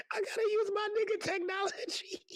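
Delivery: quoting the producer. Retold or imitated. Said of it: "as my producer would say".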